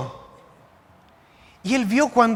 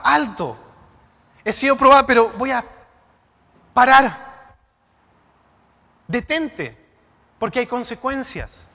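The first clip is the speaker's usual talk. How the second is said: lightly voiced urgent warning; imagined God warning; 3 semitones higher, 4 dB louder than usual. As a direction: call out as God stopping Eva. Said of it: "¿Por qué Dios no hizo".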